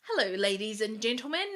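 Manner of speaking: hammed-up announcer greeting with a rising lilt; fake presenter voice. Coach mocking people who change themselves online, fake presenter voice. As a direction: put on a stagey, sing-song online persona. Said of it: "you usually talk like this and then you get on and".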